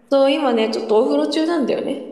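echoing from the bath; bathroom echo. Real, not acted. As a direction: voice bouncing off bathroom tiles. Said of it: "エコーかかって".

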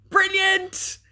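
high, bright burst of delight; delighted exclaim. Real, not acted. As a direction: cry out with delight at the comment. Reacting to a viewer's comment.

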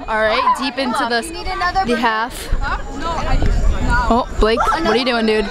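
lively amateur sports commentary; live play-by-play. Acted. Friends filming a casual match, calling it like sportscasters. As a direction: call the match like a stadium announcer, half joking.

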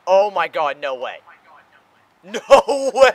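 high shrieking disbelief; shrieking jackpot winner. Real, not acted. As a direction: scream it like you just won big. Big play, jackpot reaction.

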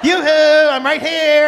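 high, loud, sing-song yoo-hoo; pesky little voice hollering; little person calling. Acted. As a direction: call out for attention like a tiny character. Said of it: "there's a little person in your pants".

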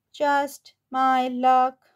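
slow, mock-weary sigh; sighing cat. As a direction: drag it out like a resigned cat. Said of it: "sighed the cat".

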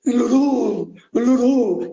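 high, drawn-out cries of Lulú; mock yell. A narrator's reading. Joke teller as patient hurling himself at the wall, high mock yell. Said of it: "y gritaba".

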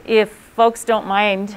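muffled through a face mask; talking through a mask. Real, not acted. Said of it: "trying to talk through my mask".

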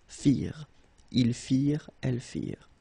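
"Firent" as fir, ENT left silent; silent ENT ending. Shown as a demonstration. Teacher showing the plural ending, silent ENT. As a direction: say "Firent" with the r as last sound. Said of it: "you don't pronounce it".

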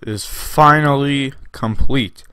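slow, grand trailer-style announcement; dramatic announcement. Pretend. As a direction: announce it like an epic reveal. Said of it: "I don't know why I'm saying it like that".

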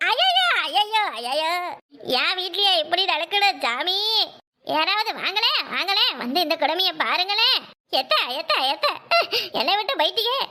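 hammed-up mourning wail, half laughing; a badly faked lament, breaking into giggles; fake wailing. Daughter-in-law fakes grief over the pretend-dead in-laws, hammed-up wailing. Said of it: "உழுந்து பிறண்டு அழ வேணாமா".

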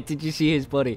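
cracking up mid-question; laughing. Real, not acted. Gamer reacting to a body in the game, laughing.

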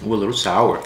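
chewing while talking; talking around candy; mouth full. Real, not acted. Seen 1: Man put candy in mouth at -4, still chewing while talking.

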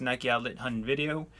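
said really fast; hurried, slightly garbled sign-off phrase; rushed. Real, not acted. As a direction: run the words together and stumble slightly. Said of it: "I try to say that really fast".

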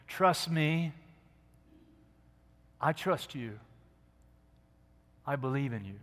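voicing God reassuring Elijah, gently. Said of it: "he was just reassuring him".

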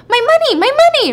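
high, loud, rapid demand; imitated child calling out fast; demanding kid. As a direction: pester like a kid owed cash. Kid demanding payment after her.

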